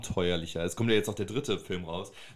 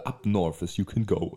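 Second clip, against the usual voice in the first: slow, mock-ominous trailer narration; horror trailer voice; slower than usual. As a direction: intone it like an old movie trailer. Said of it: "diese Trailer-Stimme am Anfang richtig weird".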